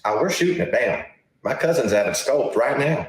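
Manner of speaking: hammed-up South Carolina good old boy; South Carolina accent. South Carolina reporter defying press secretary, put-on Southern accent. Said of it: "probably a terrible South Carolina accent".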